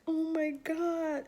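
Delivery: slow, high mock moan; retold emotional. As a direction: draw it out high and plaintive. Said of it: "like, emotional".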